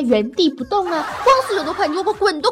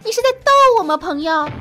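exasperated disbelief; 3 dB louder than usual. Real, not acted. Host to boys who reply in one word, disbelieving. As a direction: throw the question back in disbelief.

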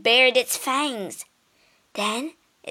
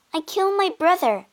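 confession; 9 semitones higher, faster than usual. Acted. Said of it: "Medea confessed".

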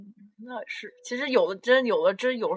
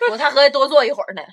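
laughing; 5 semitones higher, 11 dB louder, faster than usual. Real, not acted. Laughing reply to friend's story.

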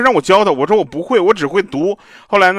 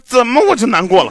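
indignant; 9 semitones higher, 6 dB louder than usual. Retold or imitated. Indignant retort to friend.

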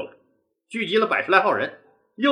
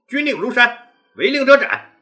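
stern proclamation; 4 semitones higher, 4 dB louder than usual. Acted. Leader proclaims the law.

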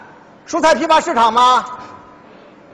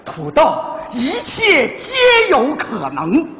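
slow commercial read with a laugh breaking in; ad slogan; slower than usual. Pretend. Husband repeating his potato ad slogan for his wife. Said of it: "广告词我都想好了".

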